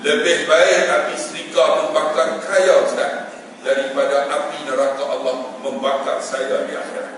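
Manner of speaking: slow, low and softened; acted solemn, touching confession; moved, sombre quote. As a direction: say it gravely, letting it sink in. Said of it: "Tersentuh hati saya".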